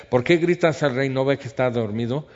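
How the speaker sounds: annoyed retort. Acted. Abner annoyed at shouting.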